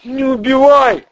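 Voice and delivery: high, loud plea not to be killed; the terrified crook begs for his life; begging Ryzhy. Acted. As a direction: plead for your life in the crook's squeaky voice. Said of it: "попросил Рыжий".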